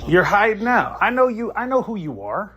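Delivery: real rage, voice cracking high; furious shout. Real, not acted. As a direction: scream the accusation at him. Heated phone quarrel.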